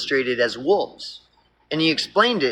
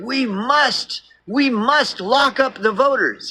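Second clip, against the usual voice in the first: higher, chummy fake-friendly pitch; lightly hammed-up sly fox; 3 semitones higher than usual. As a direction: befriend them with a sneaky grin. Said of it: "that's what the fox would say".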